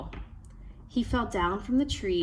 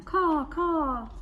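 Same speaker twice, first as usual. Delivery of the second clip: higher cawing raven call; trickster tale voices; 8 semitones higher than usual. A narrator's reading. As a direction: caw like a raven.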